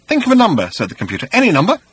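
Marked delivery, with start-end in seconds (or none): 0.1-0.7 high, bright machine voice; computer voice. A narrator's reading. Computer speaks. 1.3-1.8 high, bright machine voice; computer voice. A narrator's reading. Computer speaks.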